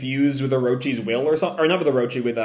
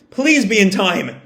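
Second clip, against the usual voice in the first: slower, desperate plea; pleading; 4 semitones higher, slower than usual. Retold or imitated. Yamato racing to the armory, pleading slowly. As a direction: beg it slowly. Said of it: "Yamato just repeats to himself".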